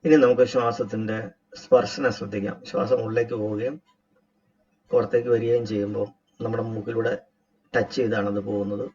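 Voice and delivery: measured instructor's voice with long pauses; guided meditation. Acted. Teacher guiding a group to relax and watch the breath, guided meditation. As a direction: guide them step by step into breath awareness.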